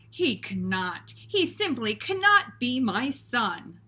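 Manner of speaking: a touch of loud despair; despairing father. Acted. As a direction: groan it out in disbelief. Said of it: "in despair".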